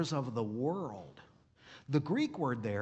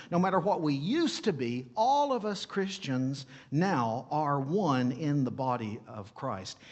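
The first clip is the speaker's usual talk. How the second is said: preaching. Real, not acted. Pastor stirring his congregation, preaching with rising fervour. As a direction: build into full preaching. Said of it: "ooh, I'm preaching now".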